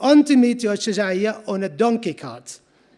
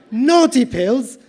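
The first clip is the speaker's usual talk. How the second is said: "Naughty pills?" slow and louder, rising; incredulous echo; 3 semitones higher, 4 dB louder, slower than usual. Acted. Shroud maker echoing the trader's confession, incredulous. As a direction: repeat it back in slow disbelief. Narrator echoes in disbelief.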